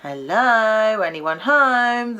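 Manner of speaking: knock-knock sarcasm in Cockney; Cockney llama calling out, mocking. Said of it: "the llama said".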